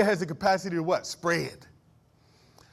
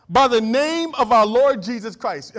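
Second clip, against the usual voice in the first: pleading apostle; 4 semitones higher, 8 dB louder, slower than usual. Retold or imitated. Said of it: "Paul is begging".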